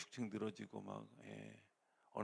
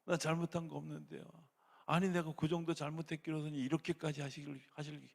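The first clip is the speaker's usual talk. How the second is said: indignant protest to God, raised and high; hammed-up indignant complaint; angry prayer; 6 semitones higher, 5 dB louder than usual. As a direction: argue with God in mock anger. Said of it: "막 이러면서 화내요".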